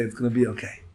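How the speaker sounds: contrasted with the panicked grandmother; idle reassurance. Retold or imitated. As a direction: say it like it isn't yours. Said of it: "don't just sit by idly and say".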